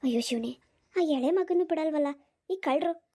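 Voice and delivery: put-on an elderly aunt hurrying the young couple along; old aunt voice. Old aunt laments alone.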